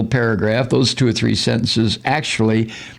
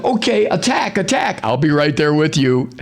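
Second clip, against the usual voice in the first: mock Trump command; 4 semitones higher than usual. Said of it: "wait till Trump tells them".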